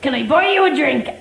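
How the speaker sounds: lightly put-on Cheltenham accent; mock Cheltenham suitor. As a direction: repeat the chat-up line in a mock Cheltenham accent. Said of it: "that's a great Cheltenham accent".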